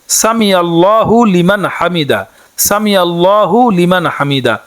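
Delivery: slow, measured Arabic recitation, each word clear; careful recitation. Shown as a demonstration. Teacher showing women the prayer words, slow careful recitation. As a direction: recite it slowly so learners can copy. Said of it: "তখন এটি পড়তে হয়".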